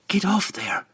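high, hissed stage whisper; harsh whisper. A narrator's reading. Canterbury scolding the panther on the divan, harsh whisper. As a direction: whisper it sharply, urgently. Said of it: "she whispered harshly at the panther".

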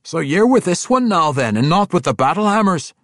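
loud, high, challenging dwarf; questioning dwarf king. A narrator's reading. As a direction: quiz him as a puzzled dwarf king. Emrys questions the young dwarf.

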